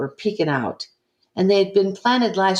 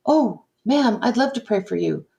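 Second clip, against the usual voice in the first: put-on eager young caller; 7 semitones higher than usual. Imitating eager young seminarian.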